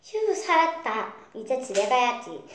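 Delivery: 높고 크게, 느리게 안도하며; 살았다는 듯 크게 한숨 돌려; 안도하는 목소리. Acted. 도망친 뒤 안도. (높고 크게 안도하는 아이)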